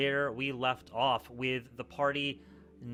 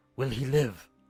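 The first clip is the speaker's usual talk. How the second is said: frantic, desperate, fervent pleading tone; 4 dB louder than usual. Voicing a panicked bird creature asking whether his friend will live: frantic pleading question. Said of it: "looks at you frantically, fervently, and asks".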